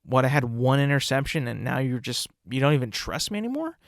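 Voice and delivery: a hint of a wounded player; quietly wounded Mac Jones; imagined hurt quarterback. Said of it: "Mac Jones is probably gonna be like".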